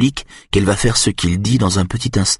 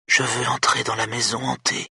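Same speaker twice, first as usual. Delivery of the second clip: put-on soft, high, hushed child's voice; whispering; 5 semitones higher, 7 dB quieter than usual. A narrator's reading. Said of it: "chuchote-t-elle".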